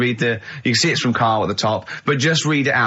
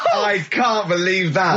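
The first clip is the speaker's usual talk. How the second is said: mock disbelief; 6 semitones higher, much slower than usual. Mock outrage at Carl's jibe.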